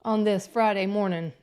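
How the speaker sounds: gravelly, husky voice from allergies; real gravelly rasp, recovering voice. Real, not acted. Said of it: "If my voice sounds a little gravelly and, mm, deeper than it should be".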